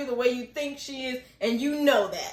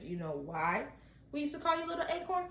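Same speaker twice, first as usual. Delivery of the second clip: lightly voiced tender mom; gentle mother; 10 dB quieter than usual. Mom gently tells nickname's origin.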